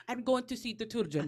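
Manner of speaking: put-on light, laughing Russian accent; half-hearted Russian accent. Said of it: "let me see if I can do a Russian accent".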